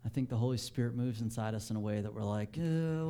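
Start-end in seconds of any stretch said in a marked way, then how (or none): 2.6-3.1 long, higher groan of unease; acted "uhhh" of hesitation; mock uneasy groan. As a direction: groan as if unsure what to do. Acting out uneasy inner reaction.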